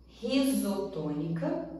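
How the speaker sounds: "risotônica" said slowly, each syllable clear; slow term. Shown as a demonstration. Teacher introducing a new term to students, slowly. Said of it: "que são a forma".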